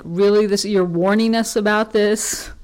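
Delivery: sarcastic sneer at the warning; snarky disbelief. Retold or imitated. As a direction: scoff at the warning like it's absurd. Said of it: "in kind of a snarky, mean way".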